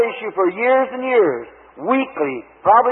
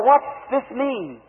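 puzzled murmur; 3 semitones higher, 5 dB quieter, much slower than usual. Retold or imitated. Puzzled thought after vision.

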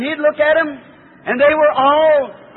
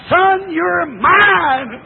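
God's call; 3 semitones higher, much slower than usual. Acted. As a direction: call it out slowly with all your force. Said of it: "he calls you and says".

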